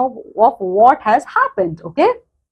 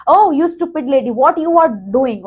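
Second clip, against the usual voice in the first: shouting; 4 semitones higher than usual. Retold or imitated. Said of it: "he started shouting and he said".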